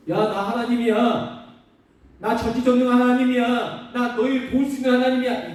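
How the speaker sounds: God announcing himself to his people; God's voice. Retold or imitated. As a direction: proclaim it as almighty God. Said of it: "첫 번째".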